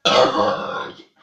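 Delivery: a single burped word. Shown as a demonstration. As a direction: say "Sestra" on a burp. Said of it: "en rotant".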